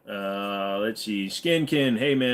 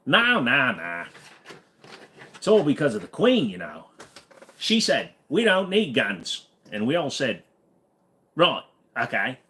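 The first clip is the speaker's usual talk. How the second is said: put-on Aussie accent; 2 semitones higher than usual. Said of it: "You sounded like an Aussie".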